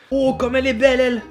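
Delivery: high delighted gush; excited. Real, not acted. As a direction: gush over it. Admiring the green chip.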